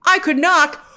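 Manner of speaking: a hint of a scheming Saul; mock Saul voice. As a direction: play him as smugly pondering. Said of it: "He's like".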